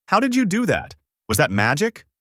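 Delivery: high-pitched, astonished question; shocked. A narrator's reading. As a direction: ask high, in mild shock. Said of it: "Goku, in shock".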